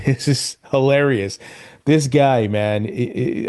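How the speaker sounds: laughing. Real, not acted. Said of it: "I just bust out laughing".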